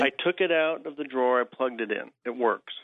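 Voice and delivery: thin telephone line sound; over a landline phone. Real, not acted. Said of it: "I'm on the landline right now".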